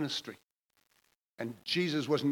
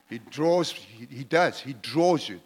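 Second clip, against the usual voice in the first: loud emphatic preaching; 6 dB louder, slower than usual. Real, not acted. Preacher hammering a point.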